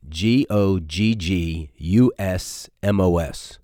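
letter by letter, slow and clear; spelling out. Shown as a demonstration. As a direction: spell out each letter slowly.

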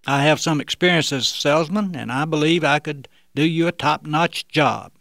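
lightly put-on phone voice; disguised voice. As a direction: fake a stranger's voice, lightly. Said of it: "as he continued to use the fake voice".

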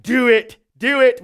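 imitating a British comedian, a light British accent. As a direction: say it like a late-night British host urging him on. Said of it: "with his British accent".

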